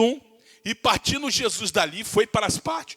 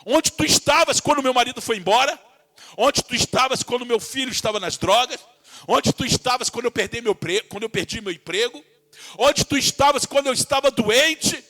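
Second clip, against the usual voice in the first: anguished questioning; 2 semitones higher, 3 dB louder than usual. Retold or imitated. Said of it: "Maria fala".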